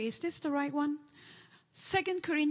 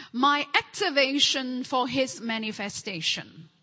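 man and woman together; 4 dB louder than usual. Real, not acted. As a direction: chant it together with the church. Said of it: "Together, one".

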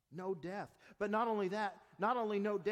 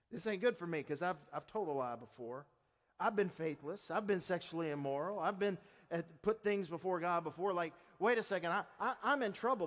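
worried listener. Retold or imitated. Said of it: "you may be thinking".

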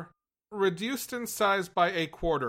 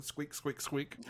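squeaky marker sounds; 9 dB quieter than usual. Pretend. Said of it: "I can make squeaky marker sounds".

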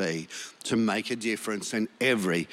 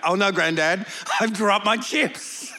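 put-on higher, louder child's wail, slow at the end; whining grandson; 8 semitones higher, 4 dB louder than usual. Grandson wailing after dropping his chips. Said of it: "do you know what happened".

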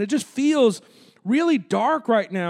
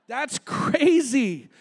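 laughing; much slower than usual. Real, not acted. Laughing at his own joke.

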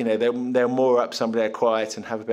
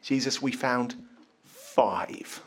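deadpan; 5 dB quieter, much slower than usual. Acted. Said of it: "Tone of voice?".

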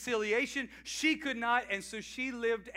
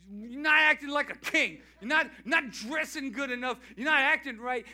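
louder, scolding voice of a wife; 3 semitones higher, 5 dB louder than usual. Retold or imitated. Wife scolding husband about his clothes, loud scolding. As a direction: scold him like a fed-up wife.

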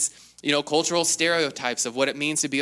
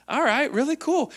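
mock impressed; 12 semitones higher than usual. Parents react to daughter.

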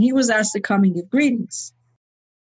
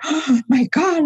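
retold gasp, slow higher-pitched dismay; alarmed begging; 5 semitones higher, slower than usual. Friend objects to the immigration topic, retold alarm. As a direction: imitate an alarmed friend pleading. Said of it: "she begged me not to do that".

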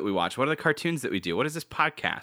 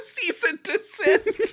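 slow mock official; much slower than usual. Joke letter from comedy.

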